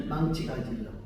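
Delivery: low, soft flat reply; lightly voiced husband muttering; deadpan husband.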